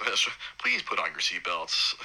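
slow hushed whisper like a cabin announcement; joking about chaos with a slow whisper; mock flight attendant whisper. New dad jokes he is a flight attendant, hushed whisper. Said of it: "I'm like".

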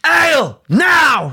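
high, loud English demand; mock English accent. Child ordering mother about, loud mock English accent. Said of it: "slipping into his old accent".

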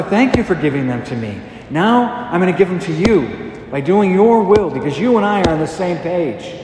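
impassioned appeal to a father, pitch lifting as it builds; crying out in prayer. Acted. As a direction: preach it as a heartfelt cry, without shouting. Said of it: "He cries out in a loud voice".

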